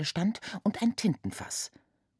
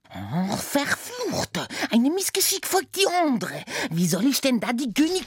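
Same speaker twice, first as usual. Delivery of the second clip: furious, much higher, loud outburst; angry voice; 12 semitones higher, 5 dB louder than usual. Acted. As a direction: curse at the bad luck. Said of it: "eine wütende Stimme".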